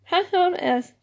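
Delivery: laughing through the words; chuckling it out. Real, not acted. Laughs at own cracked voice.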